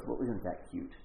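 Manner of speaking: calm the excited man down; gently amused. Retold or imitated. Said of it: "And Jesus kinda goes".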